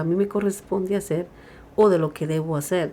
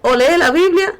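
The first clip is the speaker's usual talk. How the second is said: loud, emphatic, punching each either-or; forceful preaching; 4 dB louder than usual. Retold or imitated. Preacher voicing the Lord to the congregation, loud and emphatic. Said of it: "dice el Señor".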